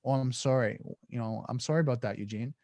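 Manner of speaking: soft, settling apology; slow, concise apology. Shown as a demonstration. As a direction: say sorry gently, letting the voice drop. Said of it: "just very slow, very concise".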